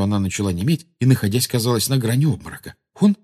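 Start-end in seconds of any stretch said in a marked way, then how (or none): 2.9-3.2 put-on very high, halting girl's cry; high-pitched astonishment; amazed exclamation. A narrator's reading. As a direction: gasp out a discovery in a high voice. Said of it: "воскликнула Гермиона".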